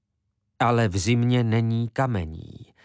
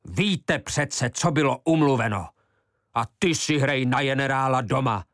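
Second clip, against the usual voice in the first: raised, heated scolding; fierce rebuke; 4 semitones higher than usual. Acted. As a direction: put the bossy woman in her place. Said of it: "se proměnil ve lva". (rozhořčené pokárání)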